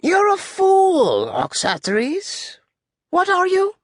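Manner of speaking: high, slow, scornful tyrant; Alexander. Acted. General berates the captain as a fool, high-pitched. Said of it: "He has a high-pitched voice".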